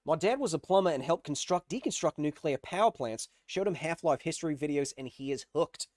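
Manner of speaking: lightly put-on Australian accent; a touch of Aussie accent. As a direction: read it out in a casual Australian accent. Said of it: "one of my best Australian accents".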